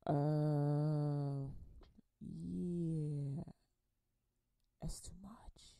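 uneasy low mutter. Retold or imitated. Acting uneasy at close talker.

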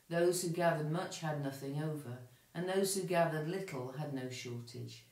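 clear, measured Bible reading to the congregation; scripture reading. Acted. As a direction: tell the story plainly and reverently. Reads scripture lesson aloud.

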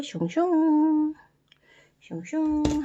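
high, slow sing-song swoosh; cheerful swooshing while gluing; playful swooshes. Acted. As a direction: stretch the swooshes out for the kids. Playful glue-spreading sound effect.

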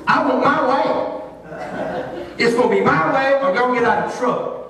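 mock tantrum, insisting on getting his way; hint of three-year-old. Preacher wanting McDonald's over Wendy's, mock childish insistence. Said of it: "I feel like I'm about three years old".

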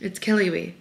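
stuffy, nasal voice from a cold. Real, not acted. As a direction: talk through a blocked nose. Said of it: "my nasally voice is killing me".

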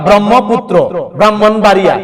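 ব্রহ্মপুত্র and ব্রাহ্মণবাড়িয়া with mm, no h; doubled m. Shown as a demonstration. Teacher lists common examples, doubled m in ব্রহ্মপুত্র, ব্রাহ্মণবাড়িয়া. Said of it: "ম এর দ্বিত্ব উচ্চারণ করা হয়".

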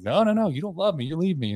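high-pitched obstinate protest; mock-stubborn whine of protest. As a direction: retell a stubborn drunken refusal. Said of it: "being obstinate".

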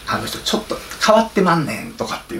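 lightly put-on Kansai gossip voice; a hint of an Osaka gossip, teasing; Kansai dialect. Insider gossips about the prime minister in mild Kansai dialect. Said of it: "なんで関西弁出てるかわかんないですけど".

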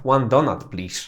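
One donut, please with donut said flat; relaxed donut order; plain Polish-style donut. Shown as a demonstration. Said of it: "a możesz powiedzieć donut".

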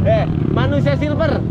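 loud, high-pitched call. Real, not acted. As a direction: hail someone excitedly on the trail. Calling out on spotting someone.

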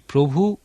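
প্রভু lifted on a rising tune; stress on প্রভু. Shown as a demonstration. Preacher showing the congregation the stress on প্রভু. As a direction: lean on the word প্রভু as a call. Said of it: "শব্দ দুটির উপর জোর দিতে পারি".

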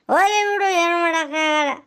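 put-on a self-pitying drunk about to cry; mock weepy resignation; tearful drunk. Drunk father feels unwanted.

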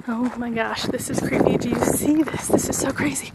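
breathless from a steep climb; panting between words; out of breath. Real, not acted. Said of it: "sorry, I'm out of breath".

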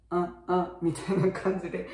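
short, indistinct schwa on あ; vague vowel. Shown as a demonstration. Teacher showing parents the schwa sound, vague vowel. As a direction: say あ as a brief, unclear neutral vowel. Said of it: "曖昧に".

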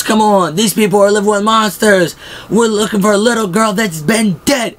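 high, pushed rant; mock ranting Shane. Shane ranting at the group, high pitched rant. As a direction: rant up high like a riled man.

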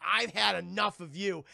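mock-angry ape declaration; fed up. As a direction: lay it down heavily.

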